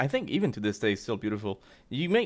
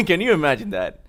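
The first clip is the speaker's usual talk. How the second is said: laughing; 2 semitones higher, 6 dB louder than usual. Real, not acted. Laughing at own joke.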